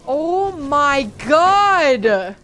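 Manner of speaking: very slow, loud, high wail; real panic as it goes wrong; drawn-out panicked cry. Real, not acted. Player wailing as she is ambushed, panicked. Sudden attack in game.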